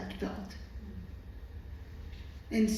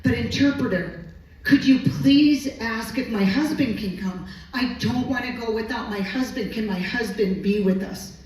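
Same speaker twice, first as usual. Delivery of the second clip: mildly desperate retold appeal to the interpreter; desperate plea. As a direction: plead with a touch of desperation, retelling it. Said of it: "with this desperation in her voice".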